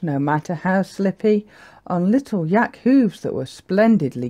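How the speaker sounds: measured, lilting picture-book reading; story narration. A narrator's reading. Narrator telling children about a little yak, lilting storytelling. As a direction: read the rhyme with bouncy emphasis.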